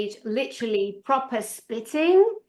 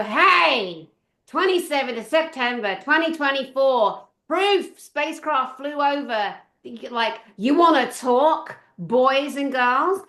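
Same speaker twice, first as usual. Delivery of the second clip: challenging attitude; 2 semitones higher, 3 dB louder than usual. Retold or imitated. Viewer challenges the news hosts in a comment, cheeky attitude. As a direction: call out a loud hey, then emphatic, stretched words. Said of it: "that's kind of my attitude a little bit".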